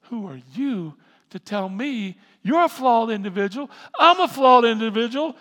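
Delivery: hammed-up offended shouting; indignant retort. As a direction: snap back at your accuser at full volume. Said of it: "my immediate thought is".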